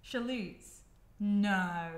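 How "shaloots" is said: shaloots with a long oo; careful try. Shown as a demonstration. Vlogger trying the corrected word once more, careful. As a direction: slowly try shaloots again. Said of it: "There's no way you say shaloots".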